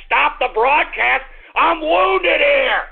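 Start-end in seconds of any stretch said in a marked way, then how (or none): 1.6-2.8 drawn-out wounded protest; slow shouted complaint. Real, not acted. Bitten host slow shout.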